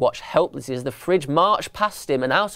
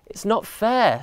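put-on higher-pitched childish protest; sighed complaint; 6 semitones higher than usual. A narrator's reading. Young elephant to his unscareable dad, sighed complaint. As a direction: sigh it out as a let-down child. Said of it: "sighed Patrick".

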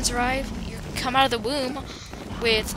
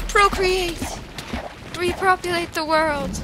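mock proclamation; 7 semitones higher than usual. Mock grand command.

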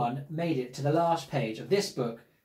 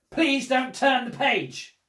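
slow firm plea; 6 semitones higher, slower than usual. Acted. Pleading after threat.

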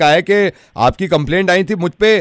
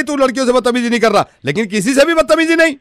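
scolding; 4 semitones higher than usual. Acted. Woman lecturing caller.

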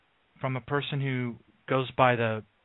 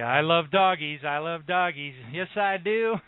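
doggy talk; 5 semitones higher than usual. Real, not acted. Host fussing over babysat dogs, light baby talk. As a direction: coo at the dogs, a touch higher.

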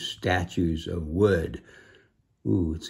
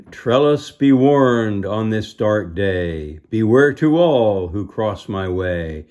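loud, slow, ominous proclamation; sorcerer's warning; 4 dB louder than usual. Acted. Reading the villain's warning to the children, loud and ominous. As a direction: boom out a dark curse.

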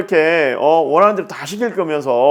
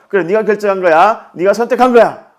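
mock parental insistence; 5 semitones higher, 5 dB louder than usual. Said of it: "부모가 이야기하는 거죠".

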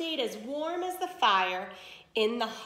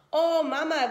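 higher and louder, giddy mock twitter; 6 semitones higher, 6 dB louder than usual. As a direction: squeal it like excited girls. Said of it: "Valentina and Dulce twittered".

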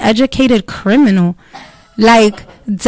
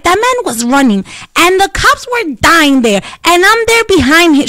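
put-on old lady, translated; 5 semitones higher than usual. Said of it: "she was like".

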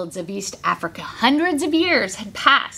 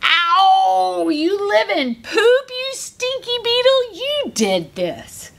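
rude rhino; 8 semitones higher, slower than usual. Acted. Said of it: "and snorted".

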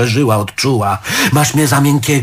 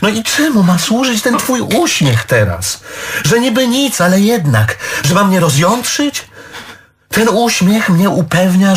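provoked; 5 semitones higher than usual. Acted. Husband provoked by her smile.

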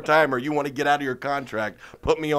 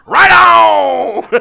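much higher, loud, manic pitch; Gary Busey impression; 18 dB louder than usual. Busey pitching a football date to Toby, high and loud. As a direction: pitch it like a man with wild plans. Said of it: "He's like".

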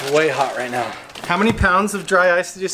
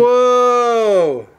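surprised whoa; 6 semitones higher, 6 dB louder than usual. Real, not acted. Cold reading on thermometer.

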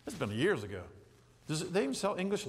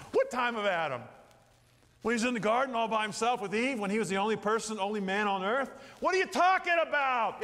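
incredulous inner voice; 3 semitones higher than usual. Retold or imitated. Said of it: "I'm thinking".

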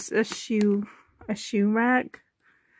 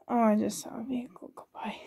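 whisper; 5 dB quieter, much faster than usual. Real, not acted. Whispering aside while showing room.

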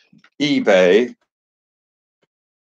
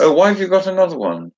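surprised; 8 semitones higher, 3 dB louder, faster than usual. Real, not acted. Sees a second robe.

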